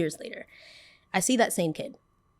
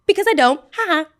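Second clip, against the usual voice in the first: higher, louder gloating laugh; 8 semitones higher, 8 dB louder than usual. Retold or imitated. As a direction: cackle in triumph over him. Gloating after rejecting him.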